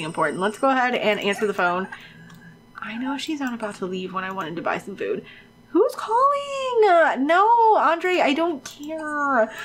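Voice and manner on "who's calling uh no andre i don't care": high, long drawn-out whine; exasperated high-pitched dragging complaint; annoyed whine. Real, not acted. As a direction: whine it high and stretch each ending. Whining at interrupting phone call.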